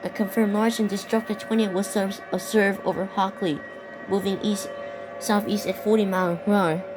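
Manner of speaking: steady, urgent weather-bulletin read; emergency alert read. Acted. Gamer reads the tornado warning to viewers like a broadcast alert.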